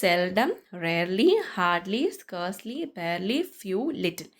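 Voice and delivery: slow, each word rising; slow repeat. Shown as a demonstration. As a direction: repeat the list slowly for the class to follow. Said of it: "ഒന്നുകൂടെ പറയാം". (പതുക്കെ ആവർത്തിച്ച് ഓരോ വാക്കും ഉയർത്തി)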